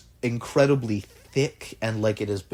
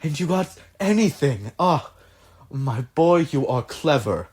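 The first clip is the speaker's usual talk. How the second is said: lightly voiced patron, pleased and impressed; delighted patron; 4 semitones higher than usual. Patron praising the clever inventor, lightly voiced delight. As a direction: praise your clever protégé with eager, halting questions.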